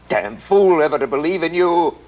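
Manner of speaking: husband turning on his wife, bitter outburst. Acted. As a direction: spit it out in disgust.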